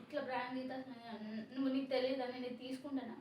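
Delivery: soft, subdued and hurt after crying; hurt wife quietly questioning her husband; quiet teary. Real, not acted. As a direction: sniffle through the words. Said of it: "ఏడుస్తూ ఉంది".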